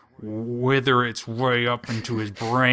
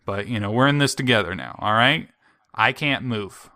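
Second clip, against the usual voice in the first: lightly voiced sly parasite, fast and louder; 2 semitones higher, 4 dB louder than usual. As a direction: wheedle like a smooth-talking creature. Parasite hand talking.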